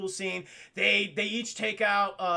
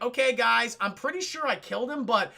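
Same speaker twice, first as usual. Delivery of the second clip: hammed-up Vader on the intercom, louder; mock PA announcement; 4 semitones higher, 4 dB louder than usual. Vader warns troopers over the PA, mock announcer. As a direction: announce it like a lazy tannoy call. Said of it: "went on the fucking P A system".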